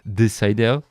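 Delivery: put-on the cider with a light French accent; slight French accent. Imitating friend's slightly French accent saying the name. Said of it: "he has this slightly French, uh, accent".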